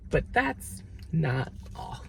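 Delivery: softly choked up, fighting not to cry; real struggle to keep from crying, voice dropping soft; trying to hold it together mid-sentence; holding back tears. Real, not acted. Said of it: "I'm trying not to cry on camera".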